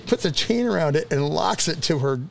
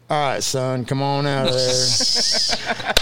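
lower, drawn-out cop voice; police officer; 3 semitones lower, much slower than usual. Retold or imitated. Cop to boy behind cans, low slow command. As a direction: imitate a cop coaxing out a hiding kid.

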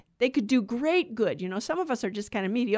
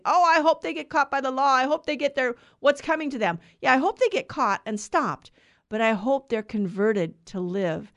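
self-righteous; 2 semitones higher, 3 dB louder than usual. Retold or imitated. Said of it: "self-righteous soapbox saying".

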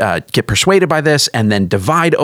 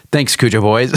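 giggling on the name; stifling a laugh. Real, not acted. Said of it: "You just can't say it without laughing".

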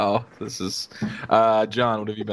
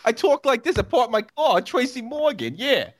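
Tracy Morgan impression. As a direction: ham it up like a shouting TV host. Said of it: "That's how he talks".

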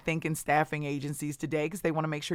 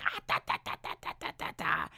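mocking laugh; 6 dB quieter, much faster than usual. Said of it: "started laughing kind of obnoxiously".

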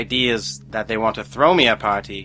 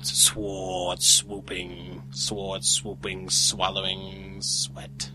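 slow drawn-out; 4 semitones lower, 8 dB quieter, much slower than usual. Acted. Tongue-twisting the s-w sound.

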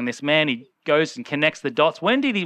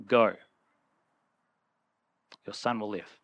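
soft word of Jesus; 9 semitones lower, 7 dB quieter than usual. Retold or imitated. Jesus speaks softly to father.

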